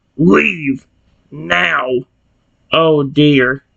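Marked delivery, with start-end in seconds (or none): 0.2-1.9 menacing, rough snarl. Narrator reading a character's final warning to a dragon, snarling. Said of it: "he snarled".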